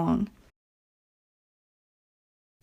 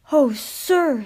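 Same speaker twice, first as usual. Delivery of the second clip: higher, louder happy reply; happily; 6 semitones higher, 3 dB louder than usual. A narrator's reading. Skarloey thanking the owner, happy and higher. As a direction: thank him with delight. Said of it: "said Skarloey happily".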